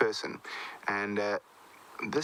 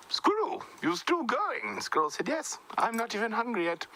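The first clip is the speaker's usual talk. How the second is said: surprised elephant; 12 semitones higher than usual. Acted. Elephant surprised, squirrel teasing.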